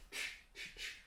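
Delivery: bare ch with the tongue curled up. Shown as a demonstration. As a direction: say "ch" as a voiceless burst, tongue curled back. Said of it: "curl your tongue up".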